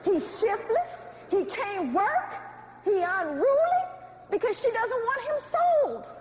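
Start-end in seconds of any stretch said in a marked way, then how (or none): 0.0-3.8 slow list, each fault rising at the end; deliberate put-downs with pauses between; slave mother's denial. Acted. Slave mother talking down her son to master, protesting. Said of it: "What is she gonna say?".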